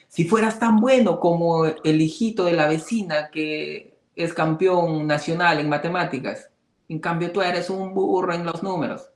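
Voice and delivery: mock a scolding parent comparing you; a hint of a disapproving mother; nagging parent. Parents comparing child with neighbour's son.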